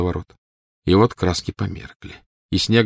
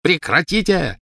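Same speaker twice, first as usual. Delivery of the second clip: high-pitched anguished outcry; cried out; 10 semitones higher, 3 dB louder than usual. A narrator's reading. Snape stopping Dumbledore's talk of Lily's eyes, crying out. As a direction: cry out sharply, voice leaping up. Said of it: "выкрикнул Снег".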